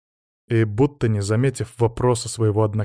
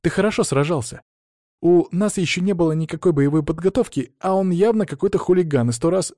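put-on higher-pitched girl's reassurance; consoling; 7 semitones higher, 3 dB louder than usual. A narrator's reading. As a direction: keep persuading him it was no shame. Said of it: "попыталась его утешить Анжела". (утешая, высоким девичьим голосом)

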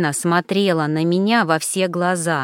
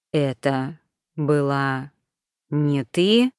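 slow; 3 semitones lower, much slower than usual. A narrator's reading. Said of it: "медленно переспросил".

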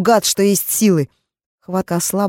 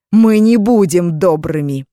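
slow loud menacing shout; menacing threat; 6 dB louder, slower than usual. Acted. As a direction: stress мы, threaten slowly. Mages threatening after laughter.

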